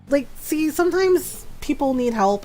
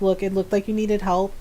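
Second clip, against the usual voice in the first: plain, understated reassurance; retold in an even, practical tone; matter-of-fact; 3 dB quieter than usual. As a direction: state it simply, no fuss. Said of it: "I was matter of fact about it".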